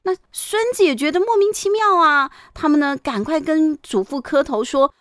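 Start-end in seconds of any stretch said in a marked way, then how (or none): none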